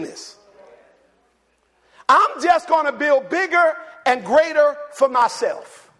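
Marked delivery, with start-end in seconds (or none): 2.1-5.9 loud, high, slow boasting; preacher mocking the rich man, high; selfish rich man. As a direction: crow it like a greedy rich man.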